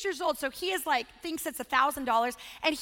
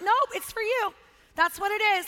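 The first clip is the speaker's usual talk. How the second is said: insistent parent; 5 semitones higher, 4 dB louder than usual. Acted. Mock parent insisting to child.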